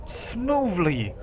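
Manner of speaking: soft, drawn-out displeasure; frowning. Acted. Juliet frowns at the hero, sulky. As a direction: sulk the words out quietly. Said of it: "she frowns".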